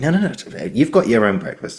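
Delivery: lightly voiced parent, lifted pitch; parent chiding child. Parent to son grabbing food, lightly chiding. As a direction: playfully fend off a little child.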